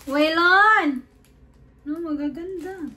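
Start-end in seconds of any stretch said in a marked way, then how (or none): 0.0-1.0 loud drawn-out call. Real, not acted. Mother calls out to Waylon, calling out loud.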